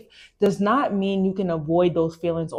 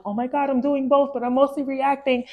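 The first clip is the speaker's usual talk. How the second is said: mock realization; 7 semitones higher than usual. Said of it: "And I was just like".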